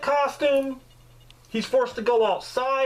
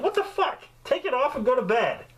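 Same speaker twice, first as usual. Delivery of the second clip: mock the wife's sleepy irritation; wife woken at night, fed up; annoyed wife; 3 semitones higher than usual. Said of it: "She'd be like".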